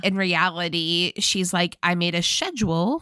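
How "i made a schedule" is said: put-on British accent. Woman telling her new man about plans, mock British accent. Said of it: "which British accent is that".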